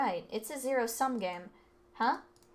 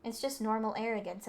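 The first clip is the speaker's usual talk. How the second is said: ordinary talk, nothing marked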